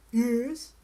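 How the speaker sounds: low, loud, slow dragon boom; a big lazy dragon brushing off a princess. A narrator's reading. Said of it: "said the dragon".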